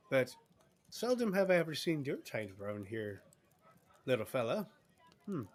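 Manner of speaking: lightly voiced southern barmaid; a touch of Southern hostess; southern accent. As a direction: chat with a customer in a Southern accent. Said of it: "Why am I going southern?".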